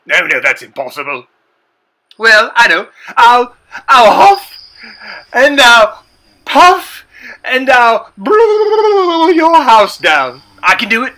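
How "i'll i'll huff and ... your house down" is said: slow, loud, drawn-out huffing threat; big bad wolf voice. Threatening to blow house down.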